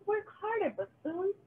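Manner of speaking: high, barking taskmaster witch; bossy witch. Acted. Witch yelling at the working pumpkins, bossy and high. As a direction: crack the whip at them.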